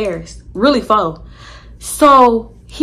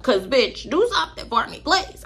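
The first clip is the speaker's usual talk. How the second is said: retold begging; 3 semitones higher, 6 dB quieter than usual. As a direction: whine for help, imitated. Retold begging friend for help.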